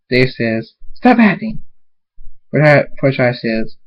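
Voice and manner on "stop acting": high, sharp demand; accusing. Acted. Dave confronting Fluttershy, accusingly. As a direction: confront them, pitched up.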